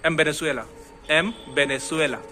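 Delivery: एम said as em, v turning to b in वेनेजुएला; m before v. Shown as a demonstration. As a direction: close the lips on एम. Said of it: "एन वेनेजुएला नहीं बोल रहा हूँ मैं".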